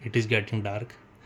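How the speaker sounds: words drawn out slowly; slow dictation. Shown as a demonstration. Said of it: "teacher dictating slowly". (धीरे-धीरे लिखवाना)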